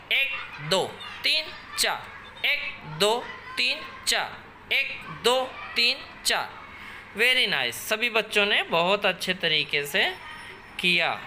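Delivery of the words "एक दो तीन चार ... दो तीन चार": brisk drill call, no pauses; quick counting. Shown as a demonstration. Teacher speeding up the exercise count for the children. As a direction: rattle off the counts one after another. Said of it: "जल्दी-जल्दी करेंगे".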